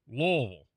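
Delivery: "Louisville" squeezed into a short LUH-vl; one-syllable Louisville. Shown as a demonstration. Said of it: "kinda sound like one syllable".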